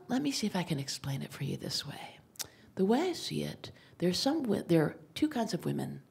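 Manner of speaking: a hint of a gentle Scandinavian doctor; gentle, soft doctor. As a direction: speak softly to reassure her like a kind doctor. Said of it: "here's the speech".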